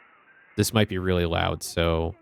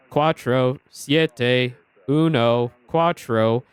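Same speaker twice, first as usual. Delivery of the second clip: numbers station voice; 4 semitones higher, 3 dB louder, much slower than usual. Retold or imitated. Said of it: "So it was like".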